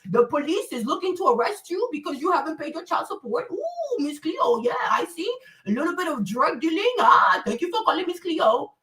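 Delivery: mock Jamaican psychic reading the caller's fortune; Miss Cleo impression. Mocking the psychic hotline caller in a Jamaican accent. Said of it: "Even Miss Cleo can know a lot of shit about you".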